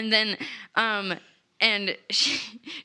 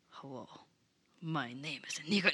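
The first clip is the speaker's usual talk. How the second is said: hushed mock greeting; 10 semitones lower, 12 dB quieter, faster than usual. Voicing the stranger.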